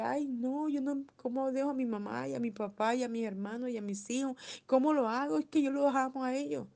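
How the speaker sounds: lightly mock people clinging to family; whining believer. People resisting God's call. (queja burlona de un creyente, más aguda)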